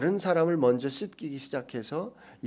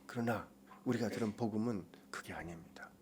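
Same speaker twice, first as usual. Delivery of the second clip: whisper; 4 semitones lower, 11 dB quieter than usual. Real, not acted. Preacher drops to a whisper.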